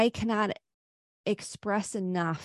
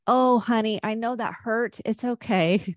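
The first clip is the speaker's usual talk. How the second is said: tender self-talk; 2 semitones higher than usual. Retold or imitated. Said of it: "talking to themselves tenderly".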